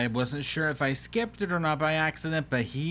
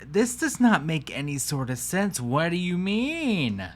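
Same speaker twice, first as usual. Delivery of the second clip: baffled protest; 2 semitones higher than usual. Real, not acted. Baffled reaction to furniture sale.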